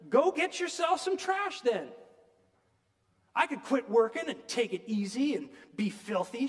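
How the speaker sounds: a woman railing at heaven; angry rant at God. Retold or imitated. Mrs Turpin argues with God, indignant and loud. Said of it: "she growled".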